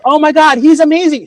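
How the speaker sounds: high-pitched mock amazement; awed. Onlooker watches a talented comic, high imitated awe. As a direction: gush briefly like an impressed onlooker.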